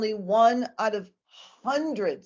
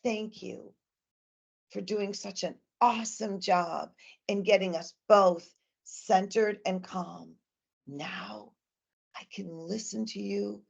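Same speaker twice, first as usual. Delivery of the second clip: grateful and calm. Shown as a demonstration. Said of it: "then I'll tell the child".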